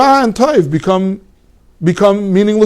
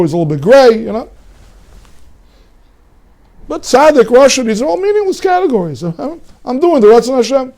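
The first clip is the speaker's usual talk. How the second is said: mock villain's boast; 3 semitones higher than usual. Teacher voices Rav Shakeh's taunt, mocking and high. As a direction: play the arrogant heretic enjoying himself. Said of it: "That was Rav Shakei Steiner".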